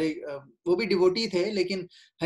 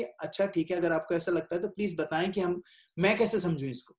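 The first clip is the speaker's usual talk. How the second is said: softer, humble request to be taught; humble asking; 3 dB quieter than usual. Pretend. Devotee properly asking his teacher, soft and humble. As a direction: ask gently, ready to learn. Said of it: "ये बोलो कि".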